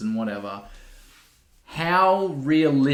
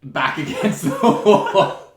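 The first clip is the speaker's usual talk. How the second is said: laughing; 3 semitones higher, 4 dB louder, much slower than usual. Real, not acted. Laughing at own pose.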